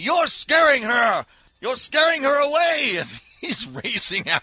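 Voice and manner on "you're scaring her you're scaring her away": high-pitched hollering shout in a character voice. Shouting in character at Wee Wee, who is racing after her: in-character shout. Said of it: "I shout at Wee Wee".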